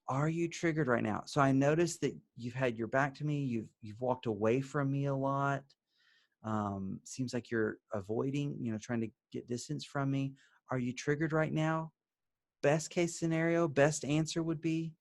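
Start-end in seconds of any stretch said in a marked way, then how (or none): 0.1-11.9 soft, quiet and caring; warm, gentle. Shown as a demonstration. Husband softly checking in with his wife. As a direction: ask gently, like checking on her. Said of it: "and you say it warmly".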